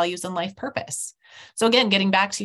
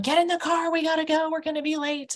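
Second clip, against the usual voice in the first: mild mock yell; 9 semitones higher than usual. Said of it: "I'm yelling at them".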